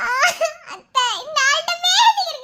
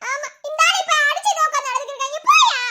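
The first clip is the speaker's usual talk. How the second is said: rattled off fast, half laughing; fast mocking scold; faster than usual. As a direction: tell him off quickly, mocking. Wife scolding husband.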